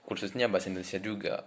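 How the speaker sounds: French accent in Indonesian; foreigner speaking indonesian. Real, not acted. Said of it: "orang Perancis yang bisa ngomong bahasa Indonesia".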